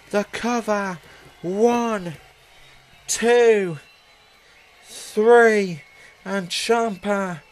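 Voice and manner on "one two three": loud count. Real, not acted. Final count called out.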